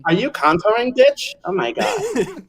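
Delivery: sassy diva voice. Acted. Campy Nancy banter.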